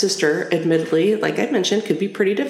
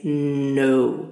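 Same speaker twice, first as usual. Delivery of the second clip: firm, low, drawn-out "no"; imitating a mother's final refusal; emphatic no; 4 semitones lower than usual. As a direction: put weight on a lowered "no". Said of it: "very emphatically".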